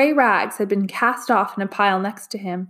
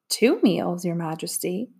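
"Two meals, Your Majesty" with a slight rise at the end; faintest question; 4 dB quieter than usual. A narrator's reading. Counselor checking the king's order, "Majesty" faintly questioning. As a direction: let "Majesty" lift softly into a question. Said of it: "faintest question in his voice".

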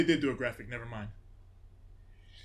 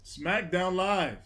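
announcer voice; 5 semitones higher, much slower than usual. Pretend. Slow announcer name.

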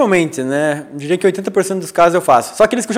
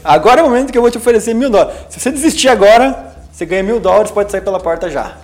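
lightly acted challenge, starting higher; founder's bold offer; 3 semitones higher than usual. Founder daring candidates to quit now, mildly imitated. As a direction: put the offer to them, raised then settling. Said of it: "nas fases finais ele falava".

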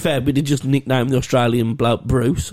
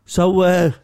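mock Black Country accent; 3 semitones higher, slower than usual. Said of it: "He went".

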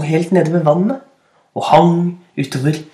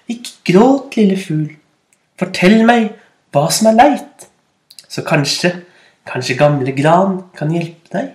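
put-on kind, comforting old spruce; friendly voice. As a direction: soothe the crying bird gently. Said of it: "en vennlig stemme". (vennlig, trøstende stemme)

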